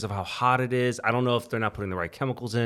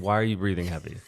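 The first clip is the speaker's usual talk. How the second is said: lower-pitched, casual question; 4 semitones lower, 3 dB quieter than usual. Shown as a demonstration. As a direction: ask it low and unaggressive. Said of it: "like, a low tone".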